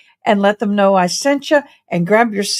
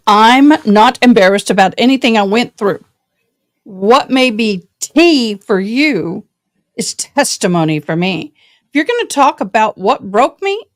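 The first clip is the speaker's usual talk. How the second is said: loud heartfelt declaration; 4 dB louder than usual. Real, not acted. Reading her post loudly.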